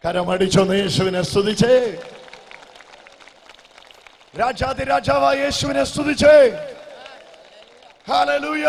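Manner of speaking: loud, high, triumphant hallelujah call; shouted praise. Real, not acted. Preacher urging the crowd to clap for Jesus, shouted praise.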